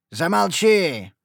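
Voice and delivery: loud, high, slow shout; cry out. Acted. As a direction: cut her off with a yell. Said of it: "вскрикнул отец". (отец резко вскрикивает)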